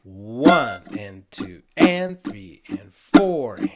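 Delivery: slow breathy count-in. Shown as a demonstration. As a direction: count the beats out slowly.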